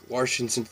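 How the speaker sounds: "Washington" with a faint r after wa; Warshington. Shown as a demonstration. Vlogger showing viewers the old timers' Washington r. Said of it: "It's like".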